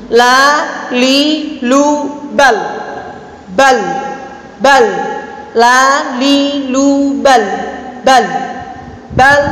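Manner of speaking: "bal" with a medium-length L, neither cut nor drawn out; half-held L. Shown as a demonstration. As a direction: sound the L of "bal" midway between held and released. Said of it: "tengah-tengah".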